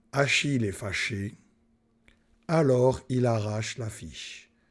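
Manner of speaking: brief pause after fâché. French lesson on the comma in a sentence, short pause after fâché. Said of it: "il y a une petite pause entre fâché et alors".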